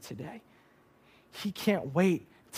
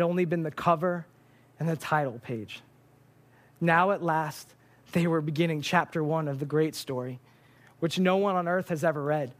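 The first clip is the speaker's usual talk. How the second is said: reading a quote. Acted. Reads C S Lewis quote.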